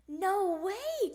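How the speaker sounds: high, loud refusal; crying out in protest. Acted. Froggy rejecting Mom's play date, loud protesting cry. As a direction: object at full voice. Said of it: "cried Froggy".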